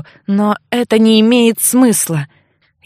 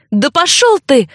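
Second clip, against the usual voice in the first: angry outburst; 6 semitones higher than usual. A narrator's reading. Heroine finally loses it with Alf, angry high outburst. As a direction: snap back at him in fury. She snaps and hits him.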